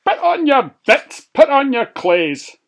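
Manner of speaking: high, loud eager chant; rally the other pigs, bouncing with eagerness; excited urging. Acted. Johnny urging his pals to set off, high and eager.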